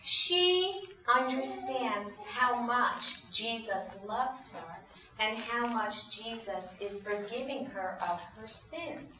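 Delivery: slow, softening, measured words; gentle explanation. Acted. Jesus explaining her forgiveness to Simon, gentle. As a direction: let it sink in, quietly and slowly.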